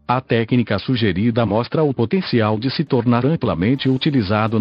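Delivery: even, machine-read text-to-speech narration; synthesized voice. Real, not acted. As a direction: read it like a computer voice. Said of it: "falo através desta voz sintetizada".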